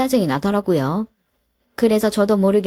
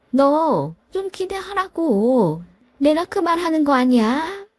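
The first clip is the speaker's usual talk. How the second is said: a lightly voiced stern mother-in-law, a touch higher; 시어머니 목소리; 6 semitones higher than usual. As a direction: scold the daughter-in-law with cold authority. (살짝 높인 깐깐한 시어머니 목소리)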